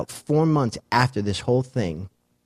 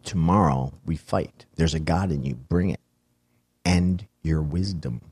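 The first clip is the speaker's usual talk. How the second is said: put-on drunk actor's line; 4 semitones lower than usual. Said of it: "That fucking actor was drunk".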